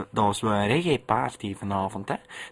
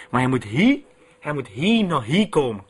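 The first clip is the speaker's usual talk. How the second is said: mock angry; 5 dB louder than usual. DJ rants at absent guest.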